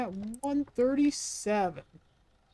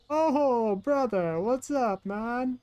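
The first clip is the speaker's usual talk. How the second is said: put-on Italian accent, pitched up and off the mark; failed Italian accent; 3 semitones higher, 3 dB louder, much slower than usual. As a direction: attempt an Italian accent and miss. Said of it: "That's not an Italian accent".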